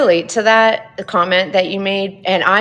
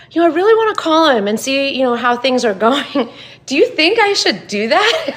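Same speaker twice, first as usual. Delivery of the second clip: higher-pitched question breaking into laughter; laughing retelling; 6 semitones higher than usual. Retold or imitated. Wife asks husband about calling sick kid's dad, laughing. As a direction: ask it through amused self-mockery.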